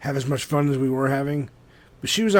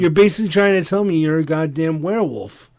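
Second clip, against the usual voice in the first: louder, emphatic disbelief; retold incredulity; 3 semitones higher, 5 dB louder than usual. Boyfriend challenges girlfriend's werewolf claim, emphatically incredulous retelling. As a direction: spell out the absurdity, replaying your side.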